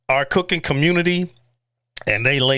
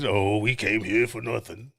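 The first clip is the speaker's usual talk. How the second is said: whiny viewer; 5 semitones lower, 6 dB quieter than usual. Retold or imitated. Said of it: "trying to make you guys".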